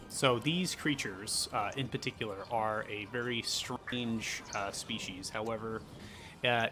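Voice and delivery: game master setting the scene for the players; game master narration. Acted. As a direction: describe the creatures like a storyteller. GM describes creatures.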